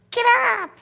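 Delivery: high shouted wake-up call; inner Ben yelling. Pretend. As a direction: yell it like an alarm in your head. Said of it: "my little inner Ben running around going".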